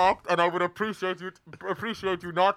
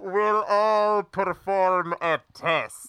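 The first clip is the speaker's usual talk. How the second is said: slow, ominous villain welcome; ominous hooded stranger; slower than usual. Acted. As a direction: announce it slowly like a sinister host.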